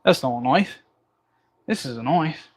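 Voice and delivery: Australian movie-quote parody, vowels broadened; lightly hammed-up Australian accent; mock Australian accent. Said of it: "hard to say in an Australian accent".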